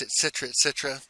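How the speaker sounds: ordinary talk, nothing marked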